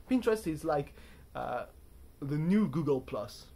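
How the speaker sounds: loud, hammy put-on British accent; bad British accent. Listing social networks for viewers in a bad British accent. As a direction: rattle off the list in a fake British accent. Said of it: "the way I pronounce the O's, isn't good".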